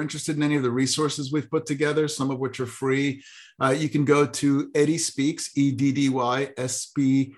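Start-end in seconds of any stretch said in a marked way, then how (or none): 5.6-7.3 spelled out slowly. Shown as a demonstration. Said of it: "Hopefully you got that".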